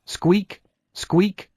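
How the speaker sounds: high rising anxious rabbit squeaks; worried little squeaks. Acted. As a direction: squeak nervously like a clinging bunny. Baby rabbit clings anxiously.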